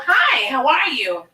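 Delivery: drawn-out, swooping hello; acted-out greeting with a high swoop on Hi; retold eager greeting. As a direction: retell an eager hello, stretching it slowly. Retelling her greeting to a voice.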